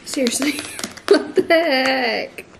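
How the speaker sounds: whispered, laughing, exasperated; real laughing whisper of frustration; laughing disbelief. Real, not acted. Struggling to open the bottle.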